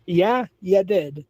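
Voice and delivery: slow, drawn-out told-you-so; slow and smug, you did. Real, not acted. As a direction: stretch it out knowingly. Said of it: "I've got a screenshot".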